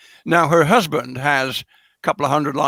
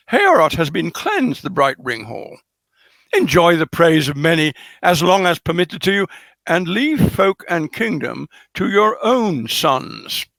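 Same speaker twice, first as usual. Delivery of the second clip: queen's speech read aloud. Acted. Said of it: "And she says".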